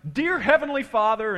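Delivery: loud, high, imitated prayer shout; praying at top volume. Pastor opening a prayer on the porch, mock top-of-lungs. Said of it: "at the top of his lungs".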